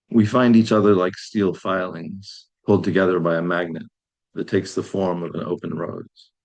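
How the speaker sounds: measured poetry reading with falling phrases; poem reading. Acted. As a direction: read it as a short poem, pausing between lines. Reads own poem aloud.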